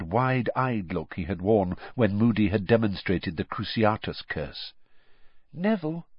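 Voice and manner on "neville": gentle. A narrator's reading. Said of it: "Hermione said gently".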